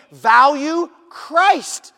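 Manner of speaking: slow, loud, punched out Value Christ; emphatic preaching. Acted. Preacher to congregation, loud slow emphasis. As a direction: drive Value Christ home slowly.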